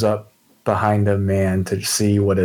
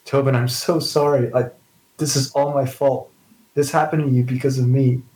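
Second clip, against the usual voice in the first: higher-pitched, mildly tearful apology; lightly acted grief, voice raised; acted sobbing; 4 semitones higher than usual. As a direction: plead guiltily as if through tears, understated.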